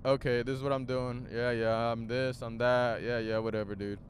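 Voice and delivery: low, quiet, offhand mimicry of a singer; imitating dismissive tone. Vlogger mimicking a singer's tone on an album, dismissive. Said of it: "his tone is like".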